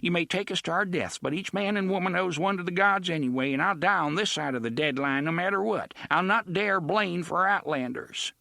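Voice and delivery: put-on high, fast, frightened old woman; an old townswoman standing her ground.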